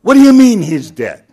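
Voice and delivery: loud, high shocked question; shocked disbelief. Acted. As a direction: recoil in disbelief at the news. Manager shocked by dead bird.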